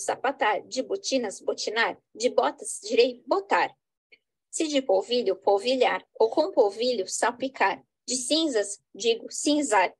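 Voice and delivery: measured, rhythmic poetry reading; poem recitation. Acted. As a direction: recite the wordplay verse with care.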